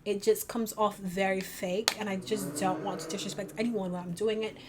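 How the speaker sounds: put-on, amateur London accent; attempted British accent. Shown as a demonstration. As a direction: try a British accent, slipping in and out. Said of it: "how to do it in the accent".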